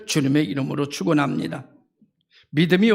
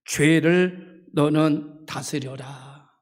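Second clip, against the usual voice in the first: slow, lowered voice of God; solemn divine command; 3 semitones lower, much slower than usual. Acted. God warning Cain to rule over sin, slow solemn command. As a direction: give a weighty command, word by word. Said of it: "그러면서 이렇게 말합니다".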